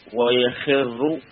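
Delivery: ويخر stretched very slowly with the kasra on the خ; drawn-out demo. Shown as a demonstration. Teacher models the regular form ويخر for students. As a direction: spell out ويخر sound by sound. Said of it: "تقول فيه يخر".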